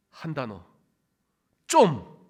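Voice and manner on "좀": one short, loud Gyeongsang burst; Gyeongsang dialect. Shown as a demonstration. Preacher demonstrates the dialect word, loud Gyeongsang accent. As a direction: fire off a Gyeongsang rebuke, high and falling. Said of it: "경상도 말로 하면 어떻게 하죠?".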